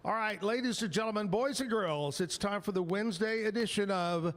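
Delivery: big, fast showman announcement; booming kids show opener. Acted. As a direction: roll it out like a kids' TV host. Host launches the show segment.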